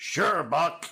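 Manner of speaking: small robot voice. Retelling how the little robot talked in Buck Rogers: imitating the little robot from Buck Rogers. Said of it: "the robot would talk like this".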